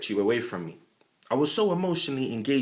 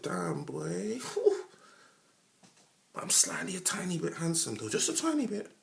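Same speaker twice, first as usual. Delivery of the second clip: smug reply; 4 semitones higher, 6 dB quieter than usual. Pretend.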